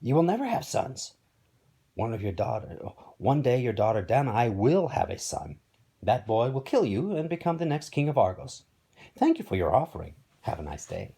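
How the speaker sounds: raspy oracle pronouncing a prophecy; raspy, emphatic fortune-teller. Acted. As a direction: deliver the prophecy with a light rasp. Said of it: "she said in a raspy voice".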